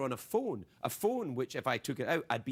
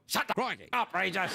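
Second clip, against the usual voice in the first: put-on old Margaret; 5 semitones higher than usual. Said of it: "cousin Margaret would go".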